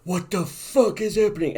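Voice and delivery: high, loud mock outburst of disbelief; shocked outcry. Imagined reader shocked by a swastika comic, loud high outcry. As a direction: yelp it like a stunned reader. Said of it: "People would be like".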